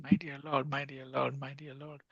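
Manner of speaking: repeated plea fading to very soft; understated, dwindling entreaty; begging. Acted. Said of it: "we are begging".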